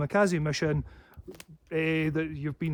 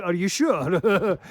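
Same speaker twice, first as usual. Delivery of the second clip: slow menacing challenge; 3 semitones higher, 7 dB louder, much slower than usual. Retold or imitated. Challenging a hostile man, slow loud and menacing. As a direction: lean in and stretch the threat. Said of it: "coming at me with hostility".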